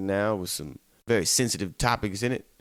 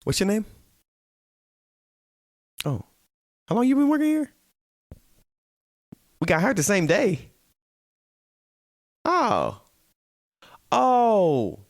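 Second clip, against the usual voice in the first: groggy coworker chat; 11 semitones higher, 4 dB louder than usual. Retold or imitated. Tired exchange with coworker replayed.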